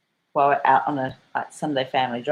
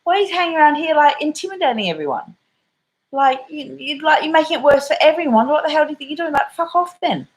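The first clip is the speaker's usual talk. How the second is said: mock daughter laying into her; imitating daughter; 11 semitones higher than usual. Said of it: "my daughter's like".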